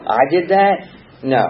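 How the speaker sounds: horrified disbelief. Retold or imitated. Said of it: "I would be horrified".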